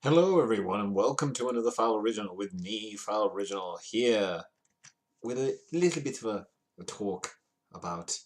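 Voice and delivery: put-on lilting Irish accent, Father Ted style. Host greeting viewers to the show, in a Father Ted accent. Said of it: "doing the Father Ted accent".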